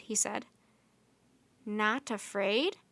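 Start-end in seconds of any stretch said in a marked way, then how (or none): 1.7-2.8 feeble voice. Acted. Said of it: "said a feeble voice".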